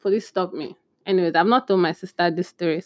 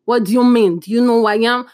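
louder, indignant bluff; brave-face bluff; 3 semitones higher, 5 dB louder than usual. Pretend. Scared passenger bluffing the police, indignant. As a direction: act important to hide fear. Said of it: "put on a brave face and be like".

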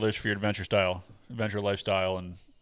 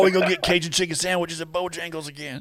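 put-on a light, higher Southern accent; 7 semitones higher than usual. Host gushing about Asheville Bojangles, light Southern accent. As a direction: slip into a Southern accent for a moment. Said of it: "I think you went southern for a second".

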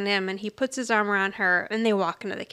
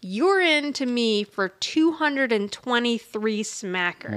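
slow gangster drawl; slower than usual. Retold or imitated. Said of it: "old gangster movies".

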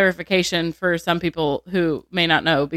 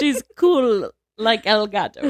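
1 laughing joke; 3 semitones higher, slower than usual. Real, not acted. Joking, laughing about cool cat.

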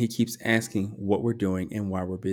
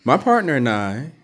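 trying not to laugh; 3 semitones higher, 6 dB louder than usual. Real, not acted. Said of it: "I'm trying not to laugh".

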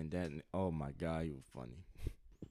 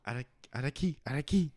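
calling out a name; 7 semitones higher, 6 dB louder than usual. Retold or imitated. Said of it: "when he was like".

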